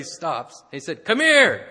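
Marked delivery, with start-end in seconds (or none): 1.0-1.7 loud much higher commanding call; retold shout. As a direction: order the crowd over with a bellow. Big biker summons the crowd.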